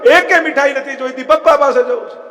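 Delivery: put-on high tearful little boy insisting on his father; child refusing. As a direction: refuse like a stubborn crying child. Lost child refusing sweets. (રડતા બાળકની જીદ)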